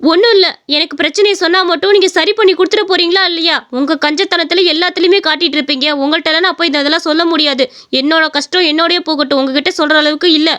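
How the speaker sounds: mildly huffy brush-off, pitch dropping by the end; curt and irritable. Acted. Wife rebuffs her husband's concern, mildly irritable. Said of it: "என்ன ரேவதி இப்படி சிடுசிடுன்னு பேசுற?".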